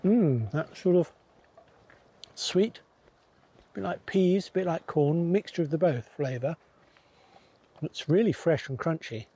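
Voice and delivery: chewing while talking. Real, not acted. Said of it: "Sorry for the munching".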